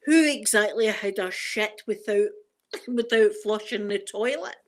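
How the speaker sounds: mock telling-off in an Edinburgh accent. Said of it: "that's the Edinburgh accent".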